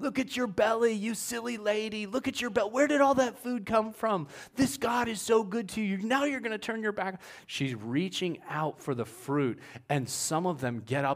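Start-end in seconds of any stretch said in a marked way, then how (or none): 0.0-7.2 play-acted, very high, shrill scolding cursing yell. Retelling how the Yembes yelled at Eve, imitating people yelling. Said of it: "they're yelling at her, they're cursing her like crazy".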